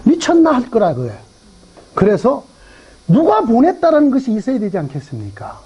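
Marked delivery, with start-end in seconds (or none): 0.0-0.5 high-pitched Gyeongsang retort; imitated Gyeongsang incredulity; Gyeongsang dialect. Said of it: "이게 경상도 말로".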